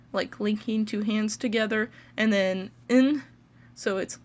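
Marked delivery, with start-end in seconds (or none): 2.9-3.2 IN said slowly by itself; "in" drawn out for a learner; syllable demonstration. Shown as a demonstration. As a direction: isolate "in", the second part of Lincoln. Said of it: "important to note that with Lincoln".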